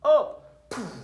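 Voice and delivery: very high, loud burst on Up; excited high shout to the class; shouted cue. Shown as a demonstration. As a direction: yell it like a launch signal. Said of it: "When I say the word up".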